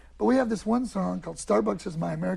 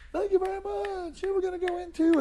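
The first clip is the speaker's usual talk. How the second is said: high-pitched mock bandleader patter; stage patter; 10 semitones higher than usual. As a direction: thank the crowd in a raised stage voice. Acts out himself addressing a gig audience.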